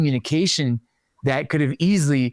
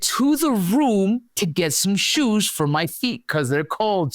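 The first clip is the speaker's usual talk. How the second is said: exasperated slow explaining; 5 semitones higher, much slower than usual. Retold or imitated. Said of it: "I said".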